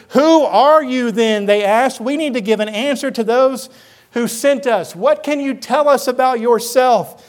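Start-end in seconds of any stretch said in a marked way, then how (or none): 0.1-1.5 slow, pressed, mildly frustrated question; a little frustrated. Acted. Priests questioning John after his denials, a little frustrated. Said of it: "them being a little frustrated". 2.0-7.2 mildly exasperated questioning; a little frustrated. Acted. Envoys needing an answer for those who sent them, mildly frustrated. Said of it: "them being a little frustrated".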